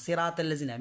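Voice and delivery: সেরাতাল্লাযিনা rattled off fast; common mispronunciation. Shown as a demonstration. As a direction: say সেরাতাল্লাযিনা quickly as "seratellazina". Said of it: "ninety percent মানুষ".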